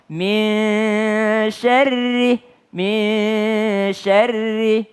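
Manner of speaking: MIN with the nun melted into a long hum before SYARRI; correct ikhfa. Shown as a demonstration. Teacher modelling min syarri for students, correct ikhfa. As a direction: hold MIN in a hidden nasal hum, then SYARRI. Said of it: "bukan min".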